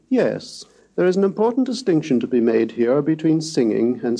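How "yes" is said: falling yes. Shown as a demonstration. Lecturer demonstrating the falling tone. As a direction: let "yes" fall away. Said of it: "or falling".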